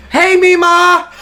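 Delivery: high, loud, slow call to a deaf grandma. Retold or imitated. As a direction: call loudly to grandma across the room. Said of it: "we'd be like".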